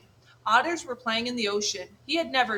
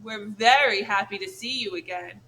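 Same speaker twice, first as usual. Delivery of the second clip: dripping sarcasm; 4 dB louder than usual. Acted. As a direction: fake the welcome, sneering. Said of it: "Her voice dripped with sarcasm".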